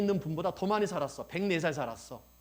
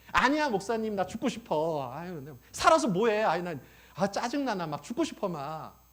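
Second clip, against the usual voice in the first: raised, loud mock grumble; irritated grandma griping to pastor; 3 semitones higher, 5 dB louder than usual. Grandmother telling pastor she wants to die, mock griping. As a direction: complain wearily, hammed-up. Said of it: "그러니까 짜증이 나는 거야".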